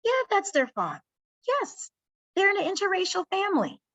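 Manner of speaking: speaking up for her. Shown as a demonstration. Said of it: "Say something".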